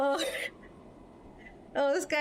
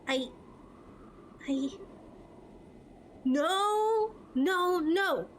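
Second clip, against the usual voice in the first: put-on a higher girl's voice, breaking into denial; Estelle heartbroken; 4 semitones higher, 5 dB quieter, slower than usual. Girl realises she hurt her partner, lightly voiced heartbreak that rises to pleading. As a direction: let her realise and fall apart.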